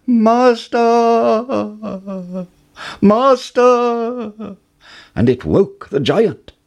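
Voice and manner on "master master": high, loud cry of alarm; a magic harp calling for its master. A narrator's reading. Harp wakes the giant, high loud cry. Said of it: "the harp cried".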